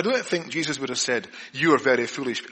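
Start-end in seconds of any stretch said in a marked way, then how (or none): 1.5-2.4 a flat, blunt telling-off; a mild, matter-of-fact reproach; blunt rebuke. Shown as a demonstration. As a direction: say it as a plain scolding. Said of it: "I don't think he said it like that".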